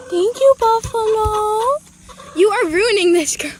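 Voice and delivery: exasperated loud protest; sarcastic loud thanks to a stubborn hen. Real, not acted. Hen pecking during egg grab.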